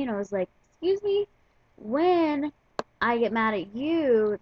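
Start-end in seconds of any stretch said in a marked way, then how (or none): 0.8-1.3 high-pitched, indignant retort; affronted. Retold or imitated. Answering coworker who compared it to her getting mad, affronted. 1.8-4.4 slow, emphatic indignant retort; indignant comeback. Retold or imitated. Telling coworker there's a difference when she gets mad, indignant.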